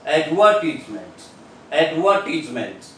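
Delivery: Advertisement with the stress on the second syllable, ad-VER-tis-ment; British Advertisement, ad-VER-tis-ment. Shown as a demonstration. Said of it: "in British language".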